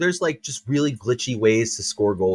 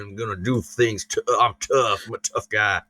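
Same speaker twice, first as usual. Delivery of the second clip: mock Southern tough guy; 2 semitones lower than usual. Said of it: "why I go to the Southern accent".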